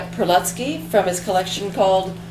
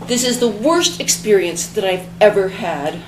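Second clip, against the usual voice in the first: furious. Acted. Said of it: "Belinda Blue was furious".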